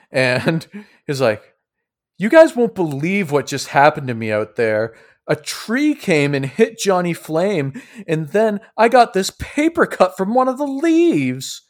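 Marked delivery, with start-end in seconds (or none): 2.2-11.6 higher-pitched aggrieved complainer; whiny, dramatic Sidroy. Acted. Sidroy moans to the party about his paper cut, whiny. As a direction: complain with pitch climbing to the end.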